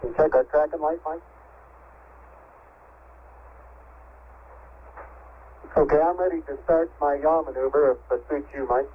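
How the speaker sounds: crackly radio transmission; over walkie talkie. Real, not acted. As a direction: voice coming through a radio link. Astronaut radio transmission from spacecraft.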